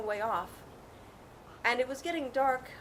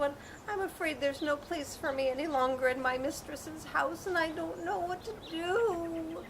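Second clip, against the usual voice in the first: put-on sad old cat; 5 semitones higher than usual. Old cat laments to donkey.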